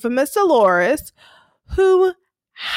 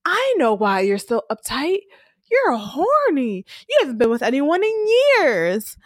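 teasing; 2 semitones higher than usual. Retold or imitated. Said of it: "Klaus is like".

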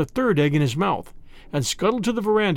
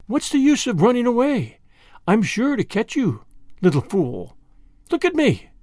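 higher-pitched, taunting cobra; taunting snake; 5 semitones higher than usual. Acted. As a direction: toy with a fleeing victim, pitch lifted.

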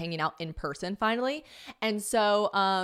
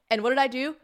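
ordinary delivery

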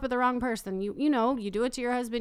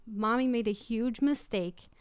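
gentle apology. Retold or imitated. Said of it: "And I'm like".

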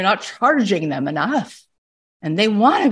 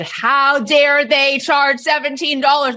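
mock indignation; 6 semitones higher, slower than usual. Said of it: "I turned to her and I said".

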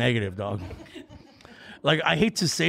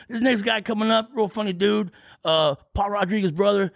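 emcee announcing; 6 semitones higher than usual. Retold or imitated. Promoter introducing comic on stage.

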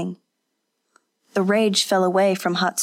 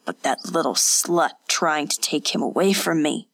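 venomous; 3 semitones lower than usual. Acted. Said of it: "her voice grew venomous again".

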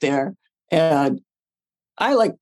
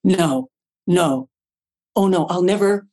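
mock wailing. Mock despair over ruined scene.

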